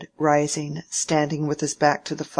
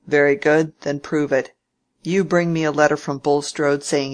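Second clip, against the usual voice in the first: lightly voiced cantankerous old man, a bit louder; a hint of a testy old uncle, pushing hard; old Featherstone; 4 dB louder than usual. Old uncle challenging his nephew Fred, lightly voiced and a bit louder.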